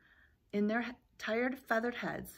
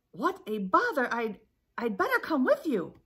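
grumpy goose; 5 semitones higher, 6 dB louder than usual. Acted. Goose grumbles.

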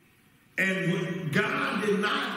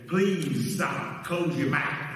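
little inner voice; 5 semitones lower, slower than usual. Retold or imitated. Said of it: "Did you hear that little voice say".

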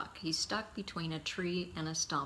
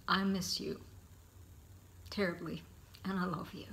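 soft, whispered, a little quick; real tearful whisper; 2 semitones higher, 5 dB quieter than usual. Real, not acted. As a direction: let the grief take the voice away. Closing words to late father.

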